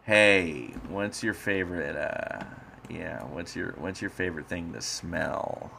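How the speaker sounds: lightly voiced creepy killer; a hint of a sinister slasher; serial killer voice. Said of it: "I'm gonna talk like I'm a serial killer now".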